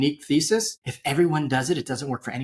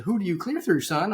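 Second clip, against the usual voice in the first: mock a Georgia lady asking who he clears through; deliberately bad Georgia accent, lightly done; horrible Georgia accent; 5 semitones higher than usual. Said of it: "uh, Georgia accent".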